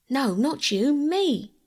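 high, urgent cry of protest. A narrator's reading. Bobby cries out to Peter that she should go, high and urgent. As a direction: insist loudly it should be her. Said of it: "But she only cried".

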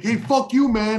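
loud, high mock yell of a ranting client; mock angry yell. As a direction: ham up the old guy's tantrum, shouting. Client's tantrum retold in quote.

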